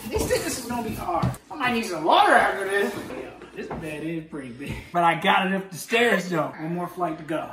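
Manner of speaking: panting after hauling a bed; puffing between words from exertion; out of breath. Real, not acted. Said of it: "I'm a little bit out of breath".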